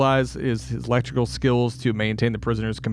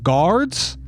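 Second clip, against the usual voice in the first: higher mock call for the guards; 6 semitones higher, 3 dB louder than usual. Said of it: "it was like".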